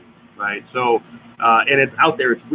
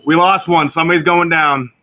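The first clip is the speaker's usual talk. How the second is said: higher, louder mock alarm; mock emergency call; 6 semitones higher, 6 dB louder than usual. Co-host joking about stream glitch, mock emergency call. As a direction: play-act reporting a casualty.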